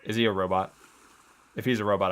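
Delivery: ordinary delivery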